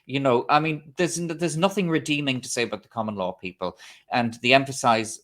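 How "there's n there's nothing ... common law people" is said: "nothing" hit with scornful weight; stress on nothing. Real, not acted. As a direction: lean hard on "nothing", a firm beat on it. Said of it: "my emphasis on the word nothing".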